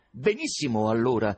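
un po' più forte, acuto e ciarliero; gridava Korofiev. Acted. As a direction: esclama soddisfatto. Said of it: "gridava Korofiev". (Korofiev esulta col presidente, forte e acuto)

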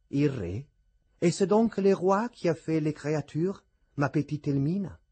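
lightly teasing French gallantry; tender, lilting question; tender, witty grace. A narrator's reading. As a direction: ask with fond amusement. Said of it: "Qui, intenerito".

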